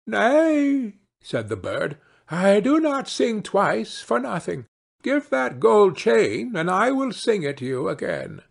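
proud bird. Acted.

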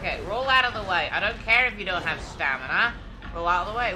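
loud, fast push to dodge; urgent command. Real, not acted. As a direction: yell at the hero to roll. Urging character to dodge.

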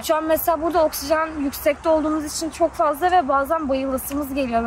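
usual speaking voice

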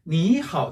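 니하오 with 니 rising as a second tone; 앞 삼성을 이성으로. Shown as a demonstration. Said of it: "앞에를 이성으로 읽어준 거고요". (니하오의 니를 이성처럼 올려서)

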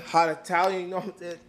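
light mock Italian accent; joking Italian accent. Vlogger showing off dad's sausage, slight Italian accent. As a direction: toss in a hint of an Italian accent. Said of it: "that's my Italian accent".

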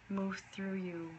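soft unvoiced whisper. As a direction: breathe the words out softly. Soft meditation guidance.

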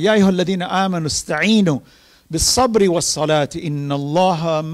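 fast, flowing chanted recitation of scripture; Arabic recitation intoned quickly; Quranic recitation. Acted. Long Quran passage recited.

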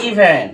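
"ইভেন" opening on a long "ee"; long E sound. Shown as a demonstration. Teacher giving an example of VCV rule, long E in "ইভেন". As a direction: say "ইভেন" with the first E as "ee". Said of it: "long sound উচ্চারিত হয়".

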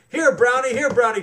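loud high call to the horse; loud coaxing call to the pony. A narrator's reading. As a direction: coax the horse from across the stream. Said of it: "called Austin".

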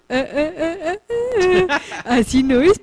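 high, rising string of "ah"s; mock-warning "ah, ah, ah", climbing in pitch; playful stuttered ah-ah-ah; teasing "ah-ah-ah". Teasing hold-back before correcting himself.

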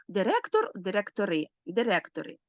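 "Директор, директори" both stressed on РЕ; stress stays on stem. Shown as a demonstration. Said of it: "наголос, е, залишається на слові".

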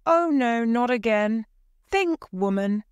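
high, alarmed protest; crying out. A narrator's reading. Husband begging his wife to think, crying out. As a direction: protest in dismay, pitched high. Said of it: "Mister White cried".

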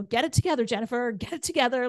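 acted self-scolding. Woman retelling fighting tears in meditation, acted self-scolding. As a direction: replay telling yourself off.

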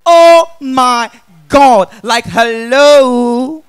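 loud, drawn-out mock gushing; imitated fan shout. Lady spotting a celebrity from afar, mock shouting. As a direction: stretch out each word as a call from afar. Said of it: "now she shout".

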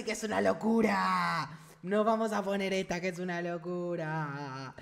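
hammed-up, lingering wonder; mock awe. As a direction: rave slowly, stretching each ending. Hammed-up raving about the new backpack.

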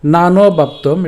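slow, measured Sanskrit shloka recitation; verse recitation. Shown as a demonstration. Teacher presenting today's Gita verse, slow recitation. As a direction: draw out each word of the verse. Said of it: "শ্লোকটি আমি ভেঙে দিয়েছি".

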